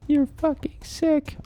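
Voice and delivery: very high, slow angry yell; disgusted shout. Acted. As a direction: yell it at the clown. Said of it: "I shouted".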